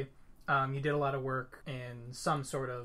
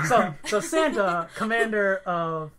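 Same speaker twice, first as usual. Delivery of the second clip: laughing; 6 semitones higher, 9 dB louder, slower than usual. Real, not acted. Laughing over the Santa joke.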